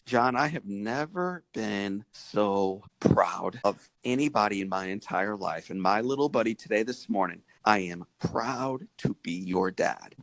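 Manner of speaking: a hint of a proud father moved to tears; tender fatherly pride. Father tells injured son he's proud.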